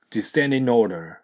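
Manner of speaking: "descending order" as descendinorder; linked without G. Shown as a demonstration. Teacher shows learners liaison, "descending order" without G. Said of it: "Gを発音せずに".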